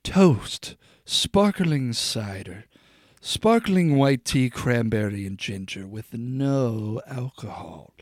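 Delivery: slow, drawn-out commercial voice; fake ad read. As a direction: savor each word like a TV ad. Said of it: "some ad read for Toast real quick".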